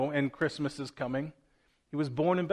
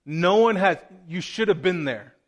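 louder, eager retelling of amazement; awed officers; 7 dB louder than usual. Retold or imitated. Officers telling the chief priests how Jesus spoke, loud and amazed. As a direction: burst out like you can't believe what you heard. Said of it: "And they said".

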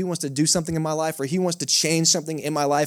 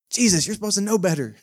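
higher-pitched mock reproach; mock scolding; 4 semitones higher than usual. Preacher jokingly chiding Jesus for breaking rules, mock scolding. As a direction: playfully tell someone off, pitched up.

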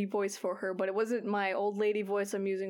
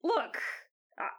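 worried objection. Acted. Squall objects to poison nets.

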